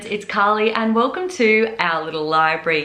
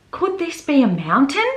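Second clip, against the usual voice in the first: wondering; 5 semitones higher than usual. Acted. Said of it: "he wondered".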